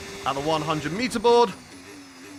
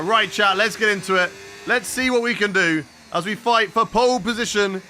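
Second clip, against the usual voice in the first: louder, higher hype call; hyped; 4 semitones higher, 3 dB louder than usual. Real, not acted. Streamer hyping chat before qualifying, excited. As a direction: pump up the viewers.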